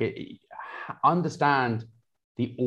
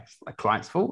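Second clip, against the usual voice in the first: higher-pitched imitation of a blaming trainer; mock excuse; 5 semitones higher than usual. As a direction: pass the blame, pitched up. Voicing trainer's excuse, then correcting it.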